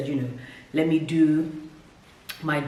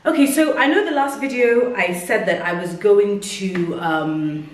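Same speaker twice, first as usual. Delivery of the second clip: out of breath; 3 semitones higher, 4 dB louder than usual. Real, not acted. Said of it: "sorry, I'm breathing heavy".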